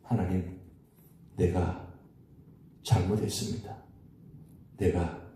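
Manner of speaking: hushed, contrite confession to God; quiet penitent prayer. Retold or imitated. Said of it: "회개 기도합니다".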